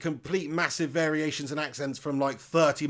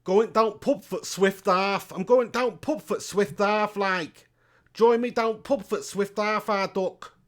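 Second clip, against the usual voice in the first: slow, higher put-on local pub accent; regional British accent; 5 semitones higher, 4 dB louder, slower than usual. Performs a regional accent sketch.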